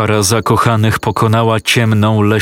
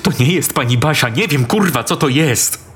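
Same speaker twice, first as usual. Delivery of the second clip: higher, hurried frightened pleading; frightened insisting; 3 semitones higher than usual. A narrator's reading. Boy desperately convinces his girlfriend about the monster, frightened. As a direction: make her believe you.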